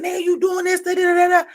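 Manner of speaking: high, loud mimicry of the man; imitating video speaker. Man in trailer park talking to friends, high loud imitation. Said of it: "they really talk like this amongst themselves".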